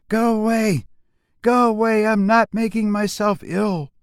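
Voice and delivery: high, firm voice telling her sister to leave; Louise's reply. Acted. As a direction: send her sister away, high and curt. Louise answers sister through door.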